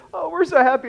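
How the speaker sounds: high, loud mock gush; gushing congregation. Church greeting a newly saved teen, hammed-up gushing. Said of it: "entire church comes down and says".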